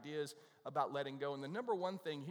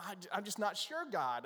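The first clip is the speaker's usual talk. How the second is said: stammering, higher-pitched doubt; mock-reluctant protest, falling at the end; hesitant Bob; 5 semitones higher, 4 dB louder than usual. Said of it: "And Bob goes".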